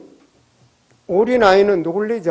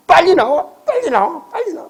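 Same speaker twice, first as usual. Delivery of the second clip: calling out higher, rising each time; retold impatient call; 7 semitones higher than usual. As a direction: hurry her out the door, climbing in pitch. Pastor hurrying wife out door.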